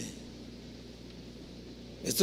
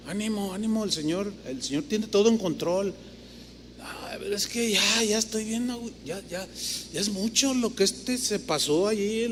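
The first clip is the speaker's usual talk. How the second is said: self-talk dialogue; 6 dB quieter than usual. Retold or imitated. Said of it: "me veo al espejo".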